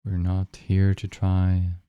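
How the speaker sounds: unhurried meditation guide with long pauses; guided meditation. Real, not acted. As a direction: guide listeners gently into the breath, leaving long silences.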